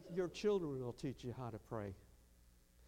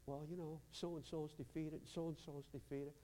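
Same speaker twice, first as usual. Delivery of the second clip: much softer, dragging each word; mock defeated mumble; 10 dB quieter than usual. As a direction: mumble it like a beaten-down kid. Mimics defeated young people.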